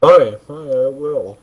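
hollow echo like a toilet; echoing bathroom. Real, not acted. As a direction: sound like you're in a small tiled room. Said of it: "Why do you sound like you're in a toilet?".

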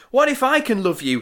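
Hilda. Acted. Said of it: "Hilda says".

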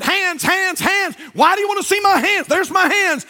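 mock-flustered chaplain; flustered priest. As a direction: sputter it like a priest caught off guard. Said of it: "he really got flustered".

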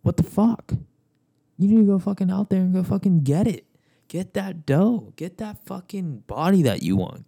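shouted high and loud, a hype yell; high yelling rant. Acted. Vlogger yelling at viewers to chase goals, high hype shout. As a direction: bellow it like a pumped-up coach.

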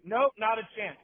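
high, loud retold refusal; instant brush-off. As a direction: cut him off loud and high.

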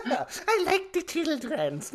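high, slow, giggling words; mocking his slip while laughing. Real, not acted. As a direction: laugh through the mocking repeat. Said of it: "children's in it".

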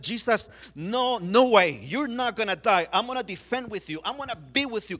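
a disciple refusing to let his master die; rising, insistent pleading; urgent protest. Acted. Peter protests Jesus will die.

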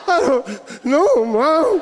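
put-on crying kid. Kid breaking under interrogation.

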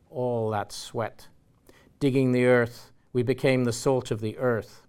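a rough stab at an Irish accent, carried through the passage; bastardized Irish accent. Shown as a demonstration. Lecturer reading the story aloud in a rough Irish accent. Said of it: "read it straight in my bastardized Irish accent".

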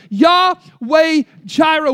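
Yahweh Jireh drawn out, YAH-weh JAI-reh; Hebrew name said slowly. Shown as a demonstration. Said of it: "But here in the Hebrew".

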